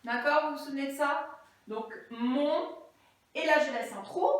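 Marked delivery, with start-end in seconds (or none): 2.1-2.8 "mon" said alone, drawn out, then a gap; word set apart. Shown as a demonstration. Teacher segmenting words for pupils, "mon" isolated. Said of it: "je segmente les mots".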